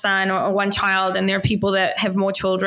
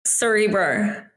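Kiwi accent, "Cerebro" ending almost in an R; slow Kiwi pronunciation, rising at the end; New Zealand accent; slower than usual. Shown as a demonstration. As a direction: draw it out slowly like a New Zealander. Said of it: "like C E B E R O R almost".

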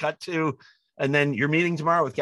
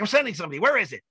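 high, urgent and keen; a studio president who suddenly has to be there; eager studio head; 9 semitones higher, much faster than usual. Retold or imitated. Studio president insisting to the manager, high and eager.

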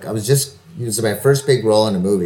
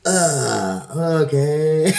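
laughing uncertain okay; 4 semitones higher, much slower than usual. Retold or imitated. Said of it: "I'm like".

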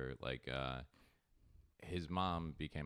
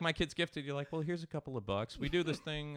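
much higher, louder, laughing impression; mock proud parent; 10 semitones higher, 5 dB louder than usual. Host mocking a bragging parent, high and hammed-up. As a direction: ham up a bragging parent, then reply. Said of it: "they're like".

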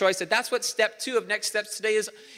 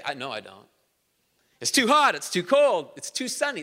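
grumbling complaints, each one lurching up and down; mildly mocked complainer; whiny negative complainer. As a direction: moan about everything. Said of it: "It's the negative person".

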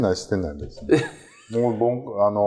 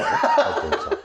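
laughing; faster than usual. Real, not acted. Shrieking laugh at new name.

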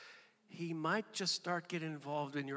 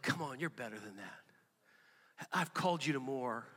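gentle tone; 3 semitones lower, 5 dB quieter than usual. Retold or imitated. The Holy Spirit gently correcting a believer, tender coaxing. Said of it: "His tone is like".

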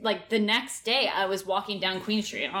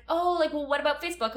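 high imitating voice; 8 semitones higher than usual. Quoting the guy.

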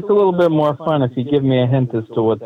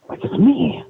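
mock caller voice; 11 semitones higher than usual. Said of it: "it sounds like".

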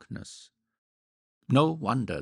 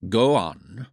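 a gruff, louder order; 6 dB louder than usual. A narrator's reading. George gruffly telling Olivia to go on, gruff and louder. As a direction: snap it out like a man losing patience. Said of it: "he said gruffly".

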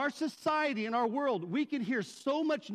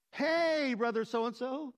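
put-on friendly greeting; 2 semitones higher, slower than usual. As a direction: greet a dreaded acquaintance with forced cheer. Acted greeting of difficult churchgoer.

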